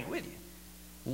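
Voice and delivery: whispered, slow drop to nothing; hushed aside. Real, not acted. Preacher to congregation, a sudden slow whisper. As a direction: pull the voice right down to a breath.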